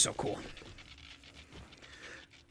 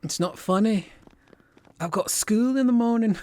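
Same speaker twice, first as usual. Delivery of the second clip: higher, bad attempt at a Scottish accent; failed Scottish accent; 8 semitones higher, 4 dB louder than usual. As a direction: try a Scottish accent and miss. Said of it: "That's not even Scottish".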